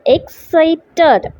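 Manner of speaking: "Excited" in three beats, ex, ci, ted, with pauses; syllable by syllable. Shown as a demonstration. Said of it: "Three syllables".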